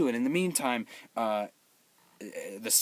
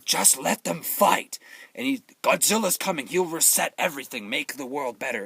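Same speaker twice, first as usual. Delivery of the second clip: imitated Japanese accent, louder and higher; Ken Watanabe; 3 semitones higher, 3 dB louder than usual. Sage telling the army to wait, imitated Japanese accent. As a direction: proclaim it in a mock Japanese accent. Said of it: "he literally talked like this".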